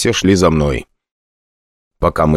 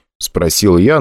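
plain reading voice

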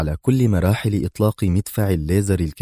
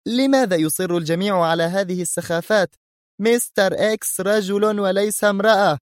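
very high, exasperated protest; high-voiced indignant rebuttal; sharp; 12 semitones higher than usual. A narrator's reading. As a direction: object sharply in a much raised pitch. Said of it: "قالت في حدة".

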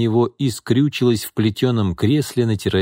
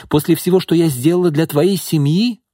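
louder, higher, stressing твоей; rising anger; 9 semitones higher, 4 dB louder than usual. A narrator's reading. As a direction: push the reproach harder. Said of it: "разозлилась Изольда". (ещё гневнее, с нажимом на «твоей»)

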